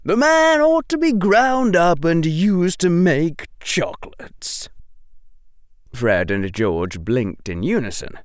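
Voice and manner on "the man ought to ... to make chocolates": put-on higher, louder outraged old man; snapping. A narrator's reading. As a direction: spit out the insult, furious. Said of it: "Flume snapped".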